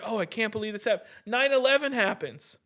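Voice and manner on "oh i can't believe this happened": quick, lightly mocking fake surprise; mock disbelief. Ranting about the government faking shock, mock disbelief. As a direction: toss off a pretend gasp of disbelief. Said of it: "the government pretends like".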